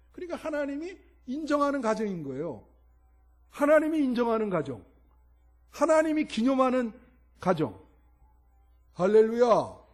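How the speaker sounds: ringing declaration to the congregation; emphatic preaching. Real, not acted. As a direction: proclaim it high and loud. Preacher proclaims the point.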